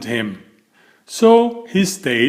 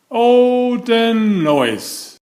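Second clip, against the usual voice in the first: high exclamation, a mock-dismayed oh; exclaiming; 9 semitones higher, much slower than usual. A narrator's reading. Narrator to children, mock-dismayed at the noise. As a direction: marvel at the racket.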